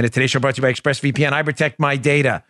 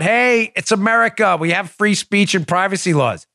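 high-pitched, breezy objection; high mock protest, easing down toward the end; naive listener; 6 semitones higher than usual. Voices a naive listener's thought.

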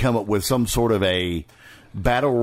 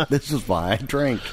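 laughing through the line; chuckling as you say it. Real, not acted. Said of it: "repeats laughing".

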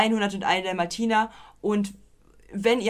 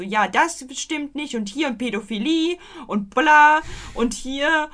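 higher-pitched grumbling at oneself; mock griping; 5 semitones higher, 3 dB louder than usual. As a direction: rattle off complaints in mock indignation. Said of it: "die halt hier die ganze Zeit irgendwie meckert".

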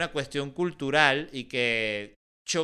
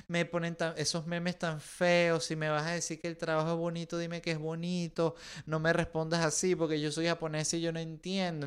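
offended Japanese artist; 3 semitones higher, 5 dB quieter than usual. Acted. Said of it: "entonces la japonesa dice".

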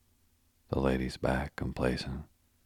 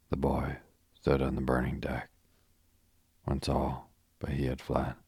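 recited. Shown as a demonstration. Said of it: "I might recite".

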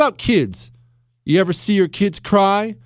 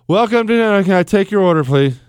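rushed order-taker; 3 semitones higher, 4 dB louder, faster than usual. Retold or imitated. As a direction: run the greeting together, louder for the confused customer. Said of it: "They speak like this".

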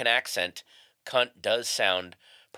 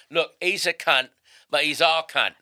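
higher, working-class Michael Caine type; working-class British accent; 4 semitones higher, 5 dB louder than usual. Shown as a demonstration. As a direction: make it working-class English, slow and emphatic. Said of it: "there's also the working class one".

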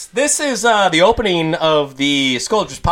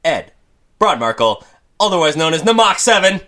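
ringmaster; 3 dB louder than usual. Pretend. Podcast intro announcing hosts.

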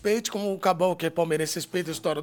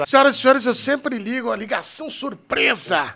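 announcer voice; 3 semitones higher, 6 dB louder than usual. Pretend. Apresentador anuncia ligação surpresa.

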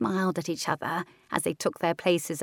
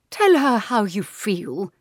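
slow, eerie ghost voice; ghostly aunt; 3 semitones higher, 6 dB louder, slower than usual. Acted. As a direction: speak like a drifting ghost. Ghost aunt keeps advising.

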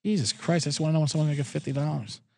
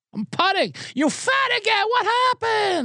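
put-on yelling Korean accent; slower than usual. Steve keeps yelling.

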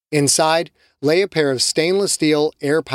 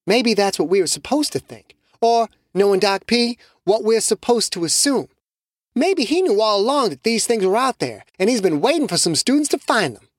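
higher-pitched voice, thinking aloud; musing Shamiqua; 8 semitones higher than usual. Acted. Shamiqua theorizing to Carlos, higher musing voice. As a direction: build the theory carefully.

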